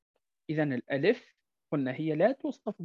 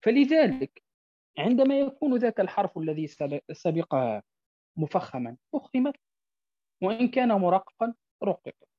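ordinary talk

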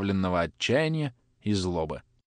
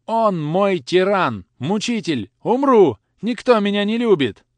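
high, loud sobbing wail; cracking tearful heartbreak; 9 semitones higher, 7 dB louder, slower than usual. Acted. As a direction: wail it out, barely able to speak. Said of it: "Едва мог проговорить я".

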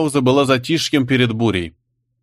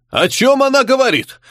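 barked; 13 semitones higher than usual. Acted. The dead fairy's uncle barks at the accused girl in rage. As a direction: snap it out like an enraged uncle. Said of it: "рявкнул дядя погибшей феи".

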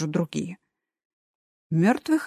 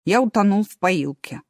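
sad. Acted. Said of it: "грустно сказал Эразм".

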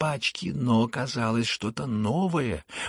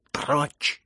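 sharp raised cry; shouted command; 5 semitones higher, 3 dB louder than usual. A narrator's reading. Heroine pushing Lebedev from the fire, shouting. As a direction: order him away in a raised voice. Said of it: "закричала Настасья Филипповна".

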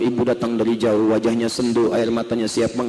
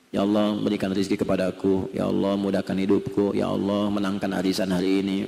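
mock prayer; 5 semitones lower, 3 dB quieter than usual. Mocking shallow lip-service prayer.

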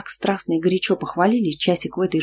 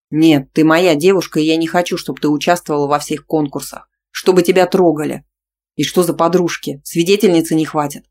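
louder, insistent refusal; jealous anger; 5 dB louder than usual. Acted. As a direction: forbid it, jealous. Jealous boyfriend argues.

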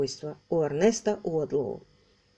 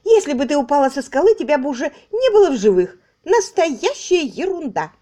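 higher, louder, fast then slowing; shrill-pitched louder irritated retort; 7 semitones higher, 6 dB louder than usual. Acted. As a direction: scold her for the absurd tale. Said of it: "раздражённо промолвила Мейбл".

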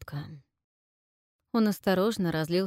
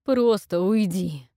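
anguished plea; 7 dB louder, slower than usual. Acted. Moaning, pushing Hazur away.

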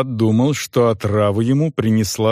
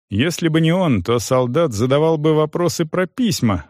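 normal talking voice

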